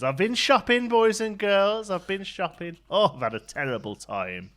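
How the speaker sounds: lightly voiced panto dame; a hint of the dame playing to the kids; mild panto dame. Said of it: "the dame comes on and says".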